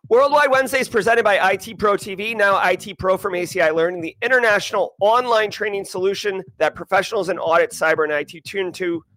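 steady, punchy promo read; sponsor ad read. Acted. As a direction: read out the sponsor plug for the stream. Reads the sponsor message.

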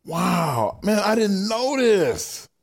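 real welling emotion, pitch lifted; choked up. Real, not acted. Cohost moved by Tommy's story, choked up. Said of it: "my eyes welling up".

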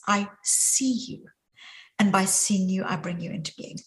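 tender sincere version; the true meaning. Shown as a demonstration. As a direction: say it gently, seeing the person.

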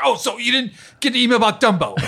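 high, insistent mock old lady with a laugh; older woman's voice. Older writer insisting about Dumbo, high and laughing.

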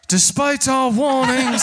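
booming voice, mouth held by dolphins; cheeks squeezed voice. Acted. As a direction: boom through squeezed cheeks. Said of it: "summon two dolphins to hold his mouth".

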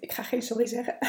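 tearful whisper, real emotion; choked-up whisper. Real, not acted. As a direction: whisper it through tears. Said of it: "dat het me raakt".

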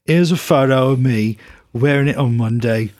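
lightly voiced Brummie rocker reading a fan letter; a hint of the rocker, mostly his own voice, laughing now and then; impression of a rock singer. Podcast host reads a listener's letter as the rocker, lightly mimicked. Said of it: "I'm gonna read it like a rock singer".

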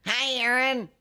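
high, bright sing-song greeting; sweet therapist voice. Retold or imitated. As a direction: coo it like a gentle counselor. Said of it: "Did she have that voice?".

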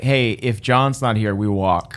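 party ultimatum. Acted. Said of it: "Everybody in the party was like".

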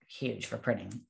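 ordinary talk

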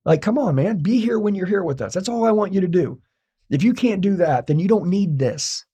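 a hint of the wife pleading; imitating wife. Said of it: "She's like".

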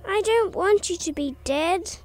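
high tearful bird whine; nasal whine. Acted. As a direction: whine it out, pleading. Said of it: "he whined again".

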